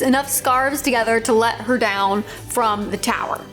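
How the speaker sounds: ordinary talk, nothing marked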